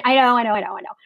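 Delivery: hushed, embarrassed admission; sheepish whisper. Real, not acted. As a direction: whisper it like a guilty confession. Admitting embarrassing Obama past.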